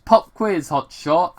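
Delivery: a hint of a taunting villain; movie villain line. Villain taunting the cop, lightly voiced. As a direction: tease the hero like a bomber. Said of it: "he interrupted".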